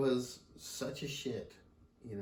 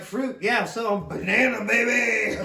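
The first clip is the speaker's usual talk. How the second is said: much higher and louder, laughing sassy retort; son's imagined sass to grandpa, laughing and much higher; cheeky pretend comeback; 9 semitones higher, 10 dB louder than usual. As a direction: play the smart-mouth teen, giggling. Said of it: "I was like".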